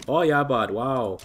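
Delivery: old-timer Canadian accent, gently hammed up; mock Canadian accent. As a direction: lightly imitate older Canadian folks' accent. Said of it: "We don't talk like".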